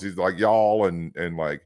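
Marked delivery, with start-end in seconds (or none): 0.4-0.9 light Southern US drawl; Southern accent. Retold or imitated. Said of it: "this guy was from the South".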